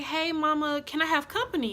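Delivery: sweet asking voice. Retold or imitated. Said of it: "she was like".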